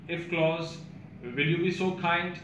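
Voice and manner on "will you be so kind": put-on old-fashioned polite request. Shown as a demonstration. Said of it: "Victorian ज़माने का वाक्य".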